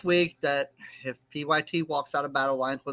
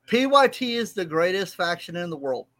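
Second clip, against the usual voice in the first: louder forced declaration, still grudging; reluctant praise, punched louder at the start; trying to mean it; 3 semitones higher, 4 dB louder than usual. Real, not acted. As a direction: push out the praise with more force. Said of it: "Say it like you mean it".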